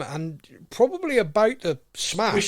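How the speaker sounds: chuckling through words; laughing. Real, not acted. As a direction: laugh as you speak. Laughing at the smash.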